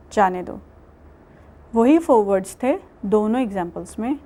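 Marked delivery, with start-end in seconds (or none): 0.1-0.6 "جانے دو" falls, lower, after the pause; second half after the pause; pause after روکو مت. Shown as a demonstration. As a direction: close with a low "جانے دو". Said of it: "دوبارہ کوٹ کرتی ہوں".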